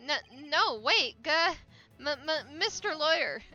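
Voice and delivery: frantic stuttering plea; panicked stammer. Acted.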